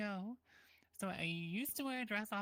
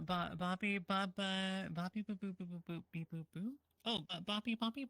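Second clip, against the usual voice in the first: toy robot voice. Pretend. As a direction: babble like a little toy robot. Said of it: "Robo Bun Bun".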